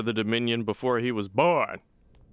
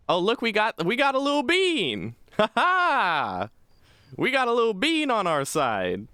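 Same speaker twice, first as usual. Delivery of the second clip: high-pitched, gleeful exclamation; delighted; 12 semitones higher than usual. Real, not acted. Gamer spotting a bean among the troops, gleefully excited. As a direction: crow happily, voice shooting up.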